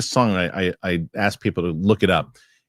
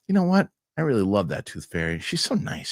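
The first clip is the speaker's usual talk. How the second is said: put-on seven-year-old daughter. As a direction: imitate a child's heartfelt verdict, pitched up. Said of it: "She goes".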